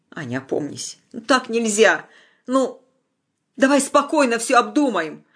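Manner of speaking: gentle, soothing. A narrator's reading. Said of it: "От ласкового, спокойного голоса".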